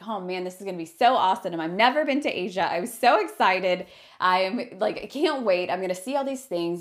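gushing with anticipation; bubbling over as the list builds; excited. Retold or imitated. Traveler gushing about a first trip to Asia, excited.

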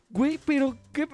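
mock outrage. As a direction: sound appalled. Retold outrage at FedEx.

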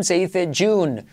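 "June" with a voiced dj start, slowly; correct English J. Shown as a demonstration. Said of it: "porque no se dice". ("June" con J inglesa sonora)

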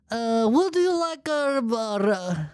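high, mock Italian waiter; put-on Italian accent. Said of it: "he could have done an Italian accent".

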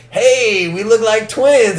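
lightly voiced sheriff calling out; sheriff joking. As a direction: crow it out as a mock sheriff. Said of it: "he's like".

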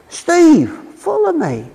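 lightly voiced shepherd calling a name. The good shepherd calling one of his sheep, a light calling voice. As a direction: call out gently but clearly, as if across a field. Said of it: "he calls them by name".

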